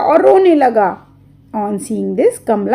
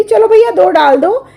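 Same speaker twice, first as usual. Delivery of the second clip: mother to seller; 8 semitones higher, 5 dB louder than usual. Acted. Mother tells seller, give two.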